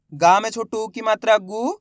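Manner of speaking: slow spelling-out, last syllable drawn up; letter-by-letter reading. Shown as a demonstration. Teacher modelling word-building for pupils, letter by letter. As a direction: spell it out slowly and lift the final sound. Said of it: "एक ही अक्षर का उच्चारण करके इनको पढ़ रहा हूँ".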